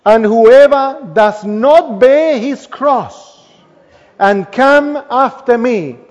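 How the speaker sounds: slow, weighty scripture reading with pauses; slow solemn reading. Acted. Preacher slowly reads Jesus' warning to the church, solemn. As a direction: read each phrase slowly, letting it land.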